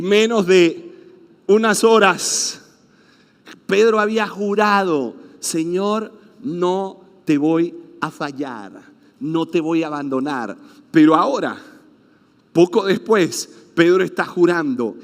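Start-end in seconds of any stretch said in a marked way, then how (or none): 5.4-10.6 earnest vow. Acted. Peter's earlier vow retold.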